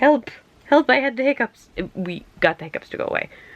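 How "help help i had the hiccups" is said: high-pitched little dog voice. Voicing the pet dog who just had the hiccups: voicing the dog Bruni. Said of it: "So he is now like".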